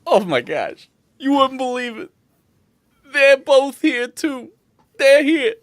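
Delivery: high, loud, excited barkeep; thrilled bartender. Acted. Bartender pointing out other adventurers, high and thrilled. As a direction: burst out with the news, pitched high.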